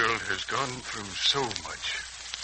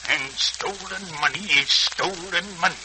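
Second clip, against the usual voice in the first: stern verdict; 3 semitones higher, 4 dB louder than usual. Acted. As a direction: lay down the law. Stern man condemns the boy.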